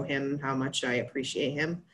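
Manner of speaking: hoarse, fading voice; voice giving out. Real, not acted. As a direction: voice cracking with emotion. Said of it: "I'm losing my voice now".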